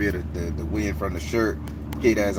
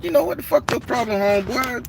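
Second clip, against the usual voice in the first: higher, retold angry challenge; 13 semitones higher than usual. The Baron confronting the stranger in the park, angry. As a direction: confront him hard. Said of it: "I say".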